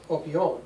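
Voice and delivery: "opion" said as one joined word; article run together. Shown as a demonstration. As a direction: run the O straight into the rest of "opion". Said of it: "it's almost run together".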